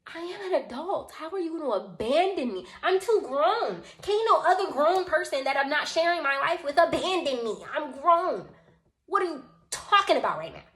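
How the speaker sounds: indignant, high-pitched retort; acted exasperation, rising high and loud; mad. Storyteller insisting she's too grown to be abandoned, mad. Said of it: "I also started to get mad".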